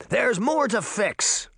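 high, drawn-out defiant call; slow, insistent cry; mild shout. A narrator's reading. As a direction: call it out with determination. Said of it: "Uncle Jake shouted".

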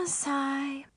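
weary acted sigh. Daughter worn out by mom's staring, sighing. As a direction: let out an audible, breathy sigh.

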